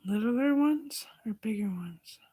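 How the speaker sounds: slow hushed whisper. Real, not acted. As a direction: whisper it, slowly. Whispered question while shopping.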